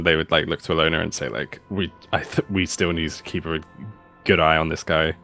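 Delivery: low character voice. Acted. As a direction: speak low and guarded. Character voices worry about guy.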